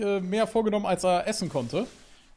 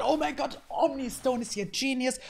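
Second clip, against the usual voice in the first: gespielte Begeisterung; 8 semitones higher than usual. Retold or imitated. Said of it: "Und dann denkt man".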